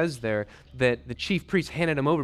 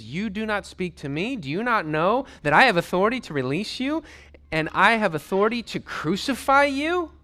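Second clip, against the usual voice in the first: indignant authority; 6 semitones higher, 4 dB louder than usual. Acted. Pilate asserts authority.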